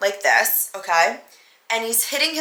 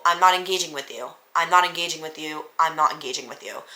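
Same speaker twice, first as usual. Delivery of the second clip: even, firm refusal, getting lower; not yelling; 4 semitones lower than usual. Retold or imitated. Telling him I won't argue in the nightclub, not yelling. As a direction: repeat it evenly without raising the voice. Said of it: "in the same tone I just said it".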